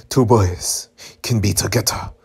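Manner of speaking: imitated Japanese-accented English; put-on Japanese accent. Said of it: "didn't mean to put the accent".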